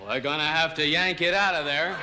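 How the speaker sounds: big tough cowboy doctor; John Wayne impression. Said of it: "John Wayne, brain surgeon".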